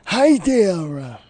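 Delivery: lightly voiced nasal old man; a hint of a fussy old man greeting; Mort from Family Guy voice. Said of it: "You sound like Mort from Family Guy".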